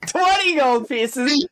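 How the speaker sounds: high, drawn-out incredulous question; stunned, pitch leaping way up; astonished. Real, not acted. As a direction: react with gleeful disbelief. Reacts to surprise windfall.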